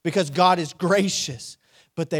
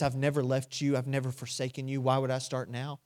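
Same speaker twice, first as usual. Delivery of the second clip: quiet reassurance; 3 semitones lower, 5 dB quieter than usual. Acted. Inner voice of God comforting.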